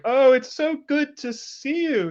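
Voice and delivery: high, loud, drawn-out social gushing; loud greeting. Acted. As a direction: greet a friend for the whole room to hear. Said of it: "have the loudest conversation".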